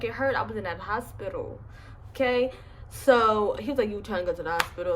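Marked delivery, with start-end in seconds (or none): 3.9-5.0 nonchalant. Retold or imitated. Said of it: "Like, very nonchalant".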